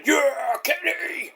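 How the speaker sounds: high, drawn-out fan whoop; mock fan cheer. Fans high-fiving Kenny at ringside, mock cheering. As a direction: cheer like an adoring fan, not at full volume.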